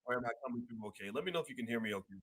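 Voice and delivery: muffled, hard to hear. Real, not acted. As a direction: sound muffled, like through a hand. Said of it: "someone said I'm muffled".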